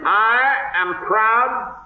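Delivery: slow, stiff, lips barely moving; Coolidge speech voice. Pretend. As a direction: deliver it like a tight-lipped president. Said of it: "State of the Union message by Calvin Coolidge".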